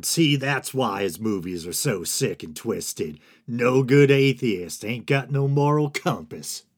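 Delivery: put-on lampoon a religious zealot in a loose Southern accent; lightly put-on Southern accent, mocking; half-ass Southern accent. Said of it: "that half-ass Southern accent".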